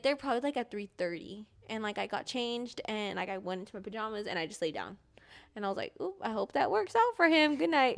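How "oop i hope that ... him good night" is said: higher-pitched, offhand sign-off; lightly mocking lack of concern; mock carefree. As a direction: act out a breezy thought at bedtime. Acting out carefree bedtime thought.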